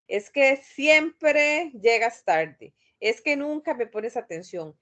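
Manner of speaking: mock accusing partner; reproachful complaint. Shown as a demonstration. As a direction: complain with blame. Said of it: "evitar expresiones de tipo siempre, nunca".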